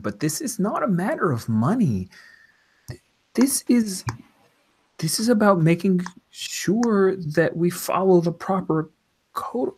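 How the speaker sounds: lightly voiced prim official; polite official voice. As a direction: refuse politely, citing the rules.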